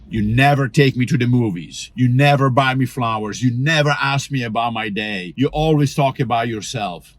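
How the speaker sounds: NEVER hit hard in each complaint; accusing nevers. Retold or imitated. Spouse listing grievances, stressing every never. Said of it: "this long list of always and never".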